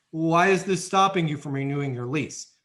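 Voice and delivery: a pushy why question; demanding why. Shown as a demonstration. Agent wrongly pressing the resident on why, demanding. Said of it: "That is not what I told you to say".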